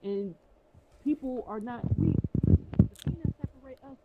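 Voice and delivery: faint and far away, like behind a wall; distant, muffled from the next room; through a wall. Real, not acted. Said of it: "You sound so far away".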